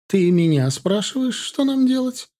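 sharp rising irritation, high on нам; mother, irritated at her son's question. A narrator's reading. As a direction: snap it back as an annoyed mother. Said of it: "раздражённо спросила его мать".

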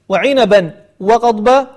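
وعنبا وقضبا spoken slowly with clear n and a break; tanween separated. Shown as a demonstration. Teacher marking the first place, words said slowly and separately. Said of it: "الموضوع الأول".

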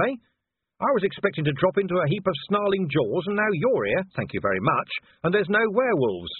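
a hint of a sarcastic, exasperated old copper; lightly voiced irritable Vimes. Vimes's voice in dialogue.

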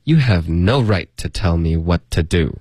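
slightly slow but connected sentence; measured model reading. Shown as a demonstration. Teacher gives the second model read, measured and connected. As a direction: read it through smoothly at a learner's pace. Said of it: "那我们来读两遍".

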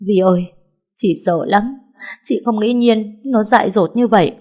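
frightened friend sobbing out the news; choked sobbing. Acted. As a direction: push the words through sobs. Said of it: "nghẹn ngào khóc nấc lên".

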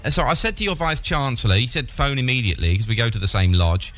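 put-on dim old man voice. Prank caller plays a dim old man.

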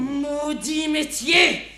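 bitter outburst. Acted. Cursing her trade.

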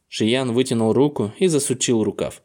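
usual speaking voice

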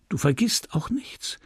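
whispered, anxious question; hushed worried whisper. Acted. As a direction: whisper it so no one hears. Hushed questions before their flight.

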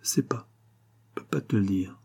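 murmure beaucoup plus doux; enfant buté, tout bas. Acted. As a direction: refuser à mi-voix. Enfant refuse de parler. (l'enfant refuse à sa mère, à mi-voix)

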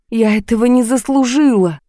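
high, tearful cry to God. A narrator's reading. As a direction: sob it out helplessly. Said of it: "и заплакала от бессилия". (плачущий вскрик, выше обычного)

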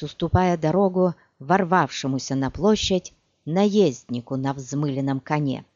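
plain reading voice

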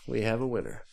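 normal talking voice

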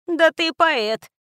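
slow, loud, mocking drawl; teasing snort; snorting tease. A narrator's reading. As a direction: scoff at him, stretching it out. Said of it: "фыркнула Тата".

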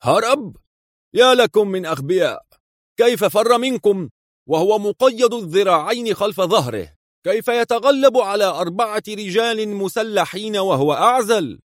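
high, outraged shout of disbelief; indignant outcry. A narrator's reading. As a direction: boss scolding fools, pitched high. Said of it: "يهتف في استنكار". (صيحة استنكار غاضبة بصوت عالٍ)

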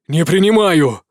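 loud sharp refusal; exclaimed. Acted. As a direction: throw out a firm no. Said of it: "воскликнул Яз". (громкий возглас)

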